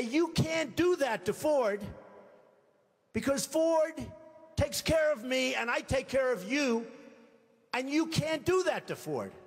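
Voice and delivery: pushy lobbyist. Retold or imitated. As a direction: lean on him like a lobbyist protecting Ford.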